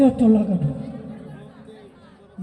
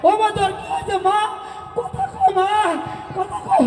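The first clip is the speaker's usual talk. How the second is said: grief-stricken wailing. Acted. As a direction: cry over her, voice rising to a wail on কথা কও মা. Son finds mother dead, wails. (কান্নাভেজা বিলাপ)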